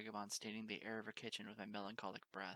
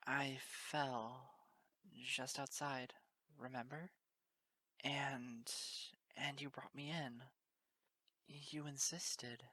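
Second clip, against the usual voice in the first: higher, faltering whimper, slowing to the end; 4 semitones higher, much slower than usual. Acted. Lost pony reminding the mare, whimpering. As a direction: push the words out through a lump in the throat. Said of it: "then whimpered again".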